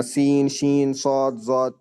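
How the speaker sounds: سین، شین، صاد، ضاد rattled off fast without pauses; rushed letters. Shown as a demonstration. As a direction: run the letters together too quickly. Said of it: "ایسا نہیں پڑھنا". (جلدی جلدی حروف پڑھنا)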